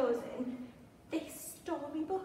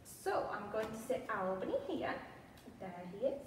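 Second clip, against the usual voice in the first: usual speaking voice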